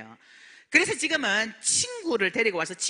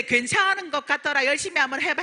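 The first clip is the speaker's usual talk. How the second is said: higher, ironic echo of his approval; mock quoting husband; 5 semitones higher than usual. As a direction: replay his words with a wry lift. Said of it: "했던 제 남편도".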